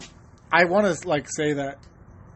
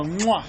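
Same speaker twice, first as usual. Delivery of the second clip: kiss sound. Retold or imitated. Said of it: "I go".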